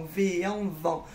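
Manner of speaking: slow blend of V and en into "vent"; sounded out. Shown as a demonstration. Teacher showing children the sound in vendredi, sounded out. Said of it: "il y a le son en".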